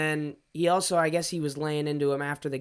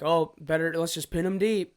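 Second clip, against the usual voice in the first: dry sarcastic jab. Retold or imitated. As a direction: say it with heavy sarcasm. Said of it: "I sarcastically say".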